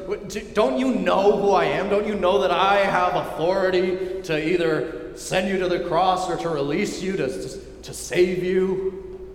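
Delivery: lightly voiced Roman governor losing patience; frustrated Pilate. Pilate grilling a silent Jesus, frustrated. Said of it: "Pilate starts to get frustrated".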